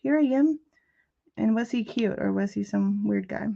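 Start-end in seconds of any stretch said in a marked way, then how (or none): 0.0-0.6 loud, higher mock princess voice; prissy princess. Tia answering the delivery guy, loud mock princess voice. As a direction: announce yourself like royalty. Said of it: "flip your hair and be like".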